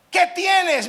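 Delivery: high, loud cry of the demon; loud pleading demon voice. Acted. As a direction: cry out like the possessed man. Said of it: "clamó a gran voz".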